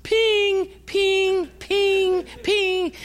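very high, drawn-out ringing pings; imitated phone ping. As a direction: mimic an insistent alert, each one on the same high note. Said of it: "the phone is just".

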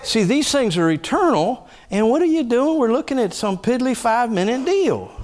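high, ringing preacher's cry; preaching at full force. Real, not acted. Preacher exhorting the church, high and ringing. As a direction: lift it up over the congregation.

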